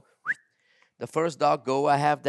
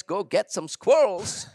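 slow, higher, louder command; calling the dog; 7 semitones higher, 4 dB louder, slower than usual. Retold or imitated. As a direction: send the dog off like a hunter. Owner commands dog to hunt.

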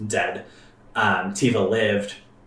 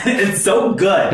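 breaking with emotion, slow and high; choked up; 10 semitones higher, 5 dB louder, slower than usual. Real, not acted. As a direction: let the feeling catch in the throat. Overwhelmed by the game's story.

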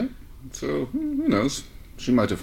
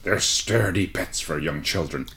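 soft murmur; 2 semitones lower, slower than usual. Acted. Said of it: "he murmured softly".

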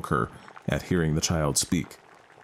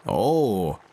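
shriek; 3 semitones higher, 3 dB louder than usual. Acted. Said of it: "shrieked the imp".

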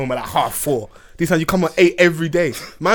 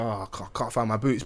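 mock nervous, much softer; small scared voice, voice cracking; a guilty son stammering to his dad; voice breaking; 7 semitones lower, 13 dB quieter than usual. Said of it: "you can hear my voice break".

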